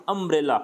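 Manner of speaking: अम्ब्रेला begun on "um", not "yoo"; vowel sound shown. Shown as a demonstration. Teacher shows अम्ब्रेला starts with "um" despite the letter U. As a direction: open अम्ब्रेला with a short "uh". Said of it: "you लिखा है और sound".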